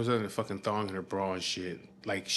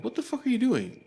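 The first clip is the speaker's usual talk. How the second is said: high-pitched imitation of an indignant girl; retold outraged squeal at normal volume; mock outraged; 12 semitones higher than usual. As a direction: imitate her shocked challenge, pitched way up. Girl confronts the intruder, retold.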